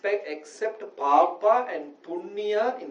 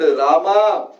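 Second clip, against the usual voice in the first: mild mock scream; 6 dB louder than usual. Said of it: "So he screamed".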